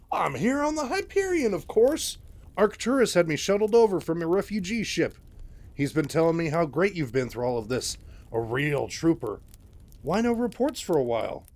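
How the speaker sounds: a slick, self-pleased mentor gushing over his star; high, loud, fawning showman voice; oily Handy Anderson. Acted.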